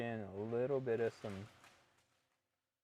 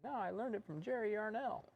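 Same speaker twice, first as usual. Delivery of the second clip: mock insistent; 12 semitones higher, 4 dB quieter than usual. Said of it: "And I was like".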